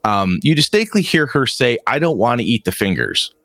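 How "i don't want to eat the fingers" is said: put-on mild, pleading child's whine; whining little girl. Little girl refusing her soup, lightly whining. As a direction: complain like a reluctant kid. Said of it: "she's complaining and whining".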